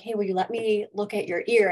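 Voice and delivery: quick, urgent request; hurried ask. Retold or imitated. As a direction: rush the question out. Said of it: "And I'm like".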